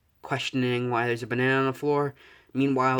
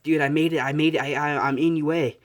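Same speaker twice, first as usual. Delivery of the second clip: higher, louder, eager good-news burst; excited; 3 semitones higher, 4 dB louder than usual. Acted. Friend calls up with good news.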